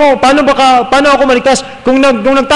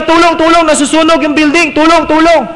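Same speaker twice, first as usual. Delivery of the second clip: higher pretend cry of tulong; mock call for help; 5 semitones higher than usual. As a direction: call out as if the building burns. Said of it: "tapos sisigaw siya".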